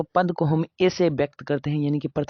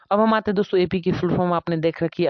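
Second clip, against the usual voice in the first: high energy; 3 semitones higher, 4 dB louder than usual. Real, not acted. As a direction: pick it up, higher and louder. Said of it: "फिर से लो को high करते हैं".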